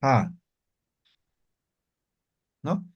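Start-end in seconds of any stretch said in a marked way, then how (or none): 0.0-0.3 "Ja" with a rasping throat friction; fricative ja. Shown as a demonstration. Teacher demonstrates Aymara X as fricative ja. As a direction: scrape the "Ja" in the throat. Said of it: "la X ahora es fricativa".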